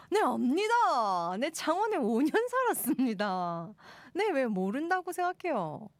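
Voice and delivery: big swooping Gyeongsang intonation; Gyeongsang dialect. Pretend. Host insisting she lived in Changwon, Gyeongsang accent. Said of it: "갱상도 말인데 뜻은 아십니까?".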